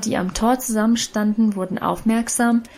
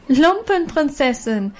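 Lumpenprinzessin called out higher and slow, jeering; mocking crowd call; 5 semitones higher than usual. A narrator's reading. Schoolgirls jeering at Annchen, slow taunting call. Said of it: "riefen die anderen und lachten".

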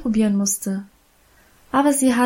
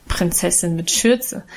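lower, teasing, lightly voiced sister; good-natured mocking; 4 semitones lower than usual. A narrator's reading. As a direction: gently poke fun at her. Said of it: "spottete Guste gutmütig lachend". (gutmütig spöttisch, tiefer)

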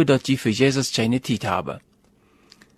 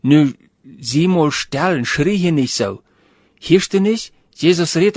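sharp, a touch louder shushing; nervous hushing; 4 dB louder than usual. Retold or imitated. Crowd hushes the blind man, irritated and louder. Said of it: "die waren nervös und sagen".

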